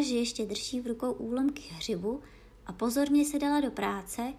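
usual speaking voice

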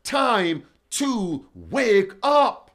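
drawn out and slow, rising at the end; slow, weighty wake-up call; slow emphatic read. Shown as a demonstration. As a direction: spell out each of the four words slowly. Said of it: "Four words".

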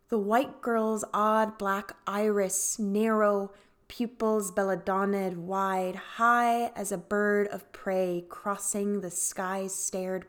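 measured, emphatic poem recital; poetry reading. Acted. Host reads a Lucy Brock Broido poem to listeners, measured recital. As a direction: recite the verse deliberately, with pauses between phrases.

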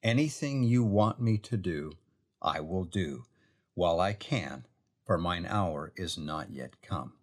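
a son gently promising his mother; quiet, kindly paraphrase; tender, willing reassurance. Shown as a demonstration. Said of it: "See the difference in that?".

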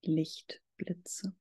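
breathy unvoiced whisper. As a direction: whisper the word gently. Guided meditation, listing sensations.

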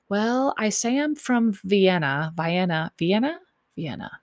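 light mock British accent; imitated British accent. Contestant greeting her on arrival, mock British accent. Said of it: "he's talking in, like, a British accent".

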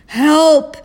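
high, loud yelp; cry for help. A narrator's reading. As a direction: yelp out as if blinded by light. Dazzled Toad cries for help.

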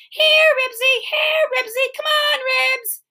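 high, urgent dog call. A narrator's reading. Henry calls Ribsy to choose him, high calling. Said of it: "At least Henry's voice worked".

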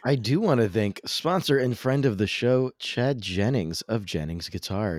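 smooth radio announcer thanking a sponsor; polished sponsor thank-you. Real, not acted. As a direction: lift the opening, then settle into a radio read. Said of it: "that's a great radio voice you just had".

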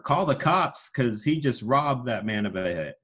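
announcer catchphrase. Shown as a demonstration.

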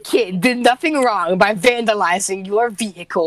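slow, loud indignant parent parody; hammed-up outraged mother; lightly voiced complaining Karen; mock entitled mom.

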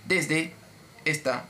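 mock-patient, one word at a time; slow, spelled-out. Agente repite despacio para que el cliente entienda, sarcástico. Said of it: "se lo voy a repetir despacio".

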